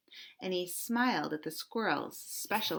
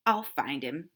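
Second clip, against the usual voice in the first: lower, dismissive scoff; 5 semitones lower than usual. Acted. Cat scoffs to the squirrel, low and dismissive. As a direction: brush off the worry. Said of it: "scoffed the cat".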